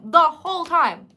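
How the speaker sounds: shocked, loud repeat of the whole time. Real, not acted. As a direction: hammer home the whole time. Repeats for emphasis.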